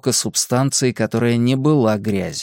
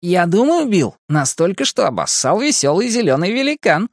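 high, sing-out yell; joking shout; 7 semitones higher than usual. A narrator's reading. Last boy shouts a joke to friends ahead, yelling. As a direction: call a wisecrack up the line, pitched high. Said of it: "крикнул".

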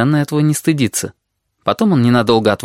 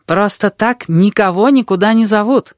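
higher-pitched, lightly smiling reply; broad smile; 9 semitones higher than usual. A narrator's reading. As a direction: answer through a broad smile. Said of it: "широко улыбнулась Рыжая".

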